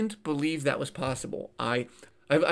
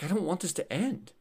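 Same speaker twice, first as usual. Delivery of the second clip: put-on slightly raised, softly upset child's plea; retold crying child; 4 semitones higher, 4 dB quieter than usual. Nine-year-old son to father at a wedding, mildly imitated tearful plea. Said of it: "he's, like, crying".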